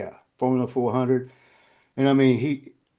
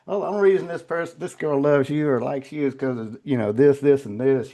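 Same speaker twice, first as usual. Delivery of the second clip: gossiping people. Retold or imitated. Man mimicking people's claims about the girl, lightly mocking.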